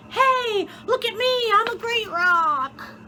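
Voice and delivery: high, pleading call for attention; imagined shout. Acted. Narrator voices the rock crying out for attention. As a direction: call out to be noticed. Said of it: "he would have shouted".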